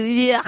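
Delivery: mock retching "yuck"; imitated disgust noise. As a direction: play-act spitting out something foul. Acts disgust at eating garbage.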